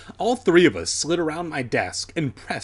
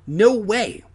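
curt interruption; 8 semitones higher, 6 dB louder than usual. A narrator's reading. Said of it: "Alex interrupted".

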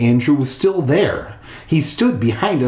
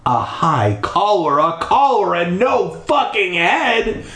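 shocked outburst; 6 semitones higher than usual. Acted. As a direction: voice jumps up high on the second collar. Narrator's shocked outburst at headless ghost.

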